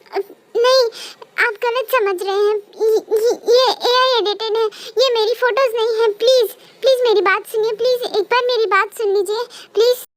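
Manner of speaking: crying, begging to be heard; desperate, tear-choked denial; tearful pleading. Acted. Accused wife begging through tears. (रोते हुए गिड़गिड़ाना)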